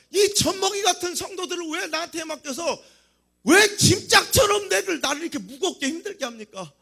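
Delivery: high-pitched acted protest; worked-up plea, easing at the end; exasperated complaint. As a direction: burst out at God about an unfair burden. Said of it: "모세 목회자 입장에서는".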